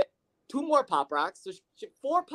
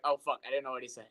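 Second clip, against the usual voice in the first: laughing; 7 semitones lower, 7 dB quieter, faster than usual. Retold or imitated. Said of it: "And I'm like".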